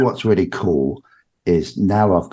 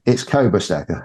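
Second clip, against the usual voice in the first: ordinary talk, nothing marked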